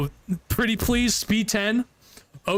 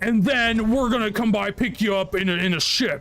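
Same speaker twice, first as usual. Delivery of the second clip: mock chewing sounds while talking. Imagining the rescuer calling over the radio signal: imitating someone eating while talking. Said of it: "in the middle of eating his, like, mustard sandwich".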